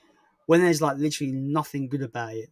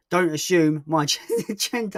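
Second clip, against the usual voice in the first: mock-indignant line broken by laughter; laughing through a mock protest; failing straight face; 3 semitones higher, 5 dB louder, slower than usual. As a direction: crack up halfway through. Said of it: "can't even do it for straight face".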